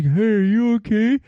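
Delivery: high bright mock-concerned kid voice, pitched well up; a carefree twenty-year-old checking on him; mock chirpy youngster. Young hikers to the struggling older man, high mock-cheery voice.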